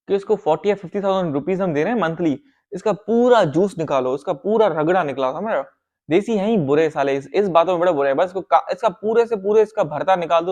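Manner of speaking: scheming over the worker's pay, mildly gloating; scheming boss. Retold or imitated. Boss tells partner to squeeze the worker dry, lightly scheming. Bosses plotting to exploit worker.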